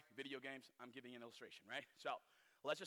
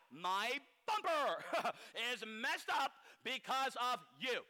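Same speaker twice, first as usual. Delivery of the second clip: chuckling through the words; laughing; slower than usual. Real, not acted. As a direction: laugh while complaining. Laughs at rear-end example.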